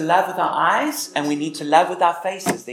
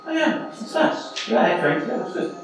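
dismissive reply; 5 semitones higher than usual. Retold or imitated. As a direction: brush the kid off without listening. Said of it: "you could think".

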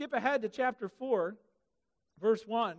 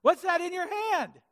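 God's question, higher and louder; booming question; 8 semitones higher, 7 dB louder than usual. Acted. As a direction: call out from the burning bush. God's voice from the bush.

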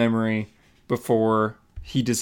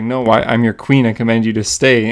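louder, lightly imperious order; retold command; 7 dB louder than usual. Mura ordering Arthur not to leave, mildly commanding. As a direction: pull rank with mock royal firmness.

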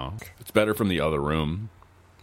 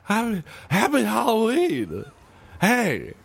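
zombie voice. Pretend. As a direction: groan it out like a silly zombie. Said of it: "I'm a zombie".

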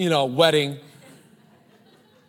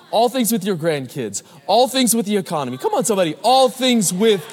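building louder and higher toward the peak; rising preacher's call; 4 semitones higher, 3 dB louder than usual. Acted. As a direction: whip the crowd up, come on somebody.

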